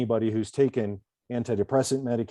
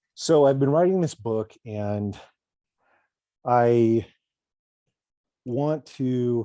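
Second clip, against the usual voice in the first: winded, out of breath, gasping between words; 4 dB louder than usual. Back after running to grab a charger, talking about a book, out of breath. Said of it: "catch my breath here".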